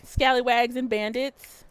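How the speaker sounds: high, slow, drawn-out welcome in a put-on voice; sing-song stream greeting. Streamer welcoming a new viewer into chat, high sing-song. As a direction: croon a welcome to the newcomer.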